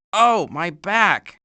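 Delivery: slow, soft pained groan; aching back. Acted. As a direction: groan through a sore back.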